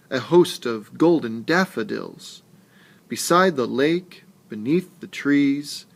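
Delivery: a teacher reading verse to the class; expressive poem reading. Shown as a demonstration. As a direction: read the poem aloud with gentle lilt. Reads the poem aloud.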